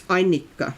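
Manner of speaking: "Annika" stressed hard on the first syllable; native name pronunciation. Shown as a demonstration. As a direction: show how Annika really sounds, with a double n. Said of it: "really strong stress on the first".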